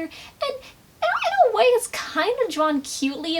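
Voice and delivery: breaking into laughter, pitched high; laughing. Real, not acted. Vlogger amused by the cute drawing, laughing high. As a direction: giggle through the words.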